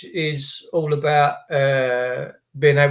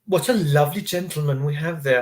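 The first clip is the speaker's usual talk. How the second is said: sarcastic. Retold or imitated. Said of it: "And I'm like".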